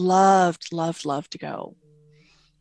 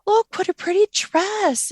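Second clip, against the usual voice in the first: quoting her daughter; 12 semitones higher, 5 dB louder than usual. Retold or imitated. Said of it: "she says".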